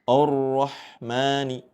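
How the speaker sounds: Ar-Rahmani with the opening A light and thin, slow. Shown as a demonstration. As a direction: keep the first A of Ar-Rahmani thin, not heavy. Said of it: "Jangan sampai dibaca tebal".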